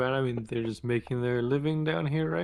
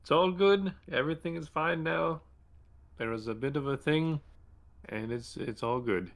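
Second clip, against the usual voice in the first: raised, higher call at first, easing back to usual; 3 semitones higher than usual. Acted. Calling out to goblins that all is fine, raised voice. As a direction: call out reassurance, settling as you go. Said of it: "call out out loud and be like".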